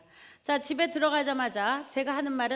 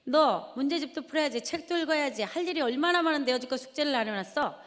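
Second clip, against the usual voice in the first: scolding mother; 4 semitones higher than usual. Retold or imitated. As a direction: snap at the kids over the hot TV. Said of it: "그리고 쏘아붙입니다".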